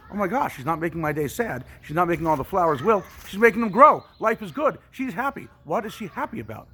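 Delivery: high, loud, rising wonder; amazed parents. Retold or imitated. Parents at the window amazed she's happy, high and loud. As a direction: marvel at the blooming flowers.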